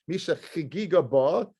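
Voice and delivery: CHIGIGA leaned on as the key word; stress on CHIGIGA. Shown as a demonstration. Teacher showing students the verse's key word, stress on CHIGIGA. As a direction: put the weight on CHIGIGA. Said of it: "the stress in the word chagiga".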